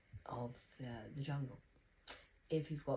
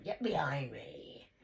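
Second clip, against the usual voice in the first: whispered warding-off; 4 dB louder, slower than usual. Pretend. Mock warding off Satan.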